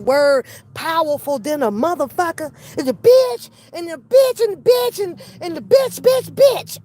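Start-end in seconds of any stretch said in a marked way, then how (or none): 2.8-6.8 high-pitched, rapid-fire repeated insult; mock ranting. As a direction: imitate a woman hurling one insult over and over. Mimicking her repeated insult.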